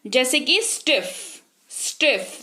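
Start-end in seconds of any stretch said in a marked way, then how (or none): 0.6-1.1 "स्टिफ" sounded together as one syllable; one-syllable demo. Shown as a demonstration. Teacher showing learners a one-syllable word, "स्टिफ" in one go. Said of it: "देखिए साथ में बोल रहे हैं". 1.7-2.4 "स्टिफ" as one unbroken syllable; one-syllable demo. Shown as a demonstration. Teacher demonstrating one syllable to learners, "स्टिफ" said all together. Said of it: "देखिए साथ में बोल रहे हैं".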